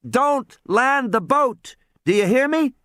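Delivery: put-on high boy's voice, urgent; a kid pleading into the phone; boy on radio. Tim urging the boat over the radio.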